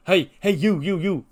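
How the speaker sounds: loud high calling voice; Truth calling out. Retold or imitated. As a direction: pitch it up and holler hey you.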